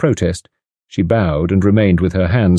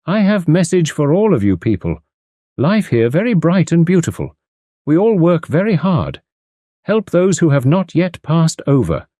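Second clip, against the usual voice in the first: medium's spirit guide speaking through her; 8 semitones higher than usual. A narrator's reading. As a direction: intone as a mock trance control voice. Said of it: "the voice of the Red Indian Cherokee".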